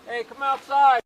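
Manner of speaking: loud, slow command over a loudspeaker; booming PA order to come out; loudspeaker announcement. Real, not acted. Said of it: "If you can announce again".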